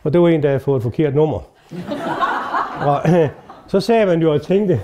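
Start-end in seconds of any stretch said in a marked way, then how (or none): 1.7-2.8 quiet breathy chuckle; a short real laugh, mostly air; soft laugh. Real, not acted. Doctor laughing at his own story, soft chuckle.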